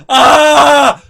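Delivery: high, loud panicked yelp; alarmed scream. Retold or imitated. Family yelping as brother lifts the box.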